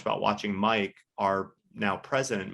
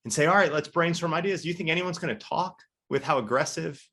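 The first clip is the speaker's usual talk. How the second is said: raised, mock-lecturing partner voice, clearly higher; mock business partner; 6 semitones higher than usual. Business partner scolding Ben about idea dumping, mock high voice. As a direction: play the blunt partner calling him out, pitched up. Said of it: "he's like".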